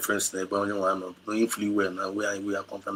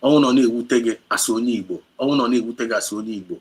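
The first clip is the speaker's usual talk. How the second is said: anguished outcry; 3 semitones higher, 9 dB louder, faster than usual. Real, not acted. Grieving outcry over killed Igbo.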